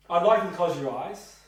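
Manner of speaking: directive instruction. Shown as a demonstration. Trainee practising a directive instruction to a client, firm. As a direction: give it as a clear order. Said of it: "Be directive".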